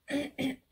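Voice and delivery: clears a tired, sore throat; real throat clear, loud; forcing the throat clear before going on. Real, not acted. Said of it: "J'ai vraiment plus de voix".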